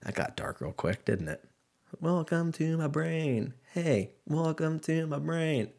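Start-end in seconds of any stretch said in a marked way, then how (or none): 2.0-5.7 slow, soft, higher put-on eerie voice; spooky welcome. To podcast listeners after a dark joke, mock-eerie welcome. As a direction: lure the listener into a creepy mind, slowly.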